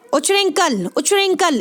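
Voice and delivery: उच्चरिंकल run together as one word, chh straight into ring; model pronunciation. Shown as a demonstration. Teacher telling students to read it so, joined model pronunciation. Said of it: "इसको ऐसे पढ़ें".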